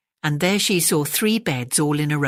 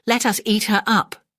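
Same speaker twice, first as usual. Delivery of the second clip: higher, lightly squeaky cub voice; tiny bear squeak; 6 semitones higher than usual. Acted. Tiny bear joining the threat, higher mild squeak. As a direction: chirp it like an eager little cub. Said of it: "Tiny Bear squeaked".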